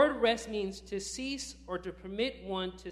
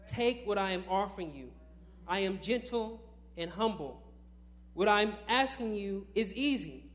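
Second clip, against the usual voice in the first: deliberate pulpit reading, easing toward the end; measured proclamation with firm key words; scripture reading. Acted. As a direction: read it out to the congregation, phrase by phrase. Continues reading own translation aloud.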